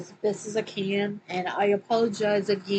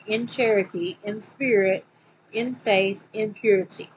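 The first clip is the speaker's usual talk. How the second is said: scripture reading; 3 dB louder than usual. Acted. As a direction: read it out like a preacher. Reads scripture quote aloud.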